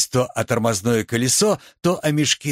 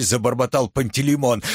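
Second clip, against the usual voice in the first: plain reading voice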